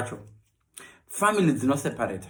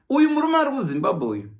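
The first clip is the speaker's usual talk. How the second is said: ordinary talk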